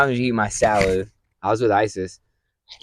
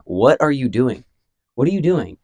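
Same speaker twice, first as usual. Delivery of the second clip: repeated baffled question; 5 semitones higher, 5 dB louder than usual. Retold or imitated. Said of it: "I just kept asking him that".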